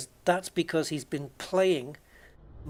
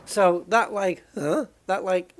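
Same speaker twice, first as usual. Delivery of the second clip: quick imitated croaky grunt; Fern Brady; 4 semitones higher, 6 dB louder, slower than usual. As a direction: mimic a comedian's croak. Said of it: "Fern Brady talks like that".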